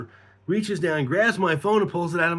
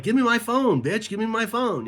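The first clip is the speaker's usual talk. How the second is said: higher-pitched, impatient retold demand; not being nice; 6 semitones higher than usual. Demanding his phone from the woman, not nice. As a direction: insist on getting it back, rudely. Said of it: "I wasn't being nice".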